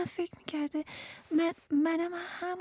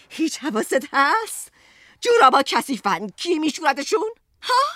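louder, rising exasperated nagging; angry complaint; 3 semitones higher, 5 dB louder than usual. Acted. Wife berating her husband over housework, angry and loud. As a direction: hammer him with every grievance.

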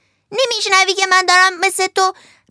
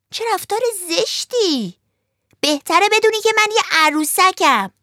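high, loud, offended puppet voice; indignant puppet; 8 semitones higher, 5 dB louder than usual. Acted. Pinocchio offended at being called a crab, high and indignant. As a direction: huff at the insult. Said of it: "با عصبانیت گفت".

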